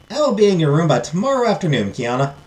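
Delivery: lilting Southern farewell from a fairy; Southern accent. Acted. Fairy promising Kiana a visit tomorrow, Southern accent. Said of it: "give her a southern accent".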